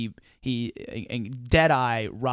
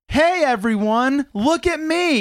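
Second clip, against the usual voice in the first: put-on high, slow little-kid call for attention; little kid showing off; 13 semitones higher, 8 dB louder, slower than usual. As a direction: play a small child demanding the room's eyes. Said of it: "And I just go".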